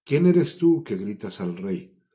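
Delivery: más fuerte y pausado, indignado; respuesta gritada. Acted. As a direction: contesta a gritos al que llama. Abner answering the shout. (grito lento e indignado)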